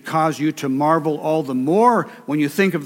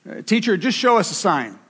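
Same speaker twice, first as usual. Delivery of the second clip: mock Pharisee; 4 semitones higher than usual. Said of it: "These are the scribes and Pharisees".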